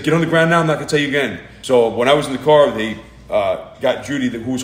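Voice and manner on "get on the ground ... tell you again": barked order, louder and higher; retold police command. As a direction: bark it like a cop with a rifle. Officer repeats order.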